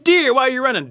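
very high, loud shouted question; rabbit calling out. Acted. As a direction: yell it after the runner. Rabbit calls out to deer.

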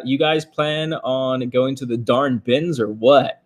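reading a chat question in a faint slow country drawl; hint of a rural country accent; slight country accent. Real, not acted. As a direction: let a little Southern country slip into the read. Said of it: "I got kinda country when I said that".

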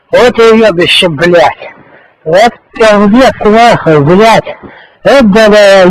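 in ice cold water. Real, not acted. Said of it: "хуево холодная вода".

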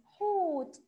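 put-on teacher calling حوت to the kids; loud, bright repeat. Shown as a demonstration. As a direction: call out حوت to the class. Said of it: "مد ايه حوت؟".

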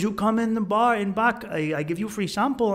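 lightly voiced Colombian tout; Colombian street hustler. Hustler luring tourists into a bar, lightly imitated. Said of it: "he goes".

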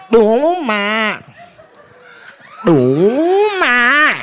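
high-pitched mock Asian dealer accent. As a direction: advise the player in a comic Asian dealer accent. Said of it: "That's what they say".

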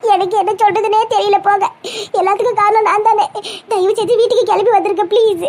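tearful pleading; weepy, guilt-laden appeal; crying. Acted. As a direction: beg him to come home through sobs. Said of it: "நீ அழுகிய நிப்பாட்டு".

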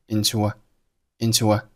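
into a joined by a faint w glide; vowel linking with w. Shown as a demonstration. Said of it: "into和a发生了元音连读".

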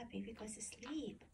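very soft, hushed; whispering over a crib. Real, not acted. Doll put to sleep.

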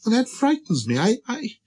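high, faltering small voice; abashed little prince. Acted. Prince unable to yawn on command, high and abashed. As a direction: stammer shyly in a high, timid voice. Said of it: "murmured the little prince, now completely abashed".

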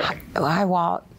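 imitating a nervous, starstruck greeting. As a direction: act a little tongue-tied meeting your idol.

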